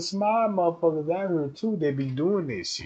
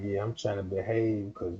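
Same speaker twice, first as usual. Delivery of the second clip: much lower, soft strained voice; straining restraint; 8 semitones lower, 9 dB quieter than usual. Retold or imitated. A man fighting temptation, speaking low and soft. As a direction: hold back, low and soft. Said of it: "you like".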